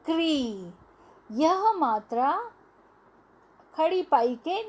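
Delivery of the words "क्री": क्री said slowly and clearly for the class; क्री pronounced. Shown as a demonstration. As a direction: model क्री as one blended syllable. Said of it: "तो यह बन गया". (बच्चों के लिए क्री साफ़ बोलना)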